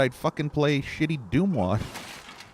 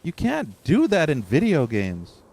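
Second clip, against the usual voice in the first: higher, heated ranting; angry rant; 9 semitones higher than usual. Real, not acted. Streamer cursing the studio over its game, heated rant. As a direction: vent it all at the developers.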